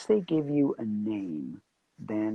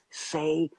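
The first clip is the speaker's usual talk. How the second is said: retold angry order, higher and drawn out; mild mock yell; 4 semitones higher, much slower than usual. Producer stops the actor a second time, mildly imitated angry yell. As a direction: stretch each word in imitated exasperation. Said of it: "he sort of yells at me".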